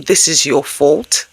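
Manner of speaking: a slow, pointed blaming parent; slow blaming line. Shown as a demonstration. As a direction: lay the blame on slowly. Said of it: "But instead of saying".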